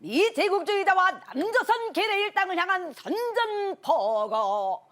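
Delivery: high, loud North Korean broadcast style; North Korean announcer. Acted. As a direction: declaim like a North Korean anchor. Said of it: "약간 이런 식으로 시작합니다".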